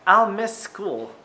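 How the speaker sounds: put-on excited child exclaim. A narrator's reading. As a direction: belt it out like an eager kid. Child character exclaims in story.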